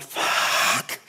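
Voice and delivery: drawn-out voiceless swear; whispered curse. Retold or imitated. Mate hearing the terminal news, whispered curse. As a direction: let it out as a long whisper.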